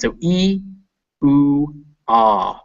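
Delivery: E, oo, ah each held clearly; demo vowels. Shown as a demonstration. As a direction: sound out E, oo, ah one by one. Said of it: "the most universal sounds".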